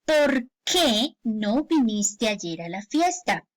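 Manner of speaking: slow POR... QUÉ, two distinct words; slow question with a gap in "por qué"; separated words. Shown as a demonstration. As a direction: split "por qué", leaning on QUÉ. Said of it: "para que suene correctamente".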